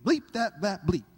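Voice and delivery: a loud grumbling rant at the government; griping barbecue guy. Retold or imitated. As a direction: rant while flipping burgers. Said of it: "he's like".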